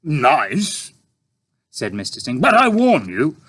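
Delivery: a hungry tramp asking; puzzled tramp. A narrator's reading. Tramp character, dry.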